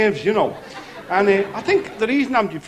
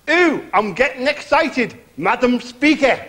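Bobby Ball impression; 3 semitones higher, slower than usual. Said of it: "Bobby Ball?".

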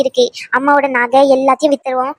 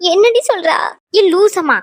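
high-pitched scolding mother; high voice of an exasperated mother; shocked mother; 6 semitones higher than usual. Acted. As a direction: scold the daughter in alarm, pitched up. Mother scolds her daughter in shock.

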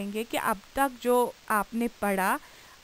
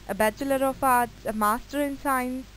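slow dictation; much slower than usual. Shown as a demonstration. Reads examples slowly for notes.

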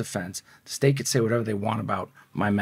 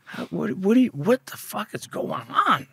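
much higher, slow, strained panic; panicked disbelief; 13 semitones higher, 4 dB quieter than usual. Retold or imitated. Teen hearing he drew the executioner, high panicked squeal. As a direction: squeak out your shock at the hanging judge. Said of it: "I'm like".

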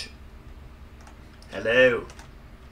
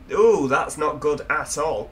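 uneasy; 6 dB louder, slower than usual. Real, not acted. Looking over the edge.

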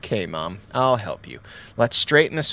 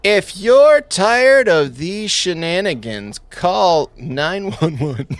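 infomercial announcer; 3 semitones higher than usual. Pretend. Infomercial pitch continued.

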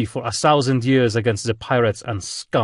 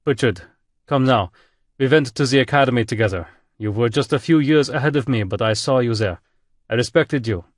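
German admiral booming, louder; 2 semitones higher, 3 dB louder than usual. Acted. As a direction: boom it over the speakers, reproachful. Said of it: "voice boomed over the speakers".

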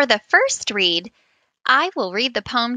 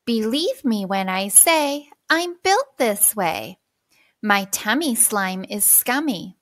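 reading aloud together in unison; many voices in unison; 3 dB quieter than usual. Shown as a demonstration. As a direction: choral reading, follow my pace. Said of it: "we will both read aloud together".

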